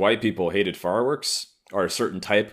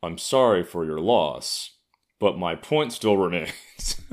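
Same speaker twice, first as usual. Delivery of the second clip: mock condolence; slower than usual. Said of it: "was just like".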